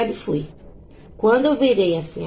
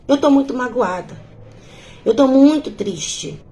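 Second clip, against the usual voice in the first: higher, slow, tearful imitation of the drunk woman; a retold tearful plea, pitched up and drawn out; imitating her crying; 4 semitones higher, 4 dB louder than usual. Woman with a beer bottle tells narrator her hurt, mock tearful. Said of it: "me viu e veio chorando".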